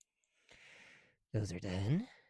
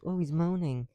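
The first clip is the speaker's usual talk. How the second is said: loud mock quote; 6 semitones higher, 11 dB louder, slower than usual. Real, not acted. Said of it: "I'm not, I'm groaning".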